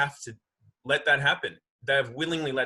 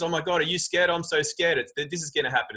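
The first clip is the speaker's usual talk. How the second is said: higher, hammed-up scared gossip; mock fear; 4 semitones higher than usual. Man imitating people scaring their friends on the phone, mock fear. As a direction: whine it like a frightened friend on the phone. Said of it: "they're calling their friends".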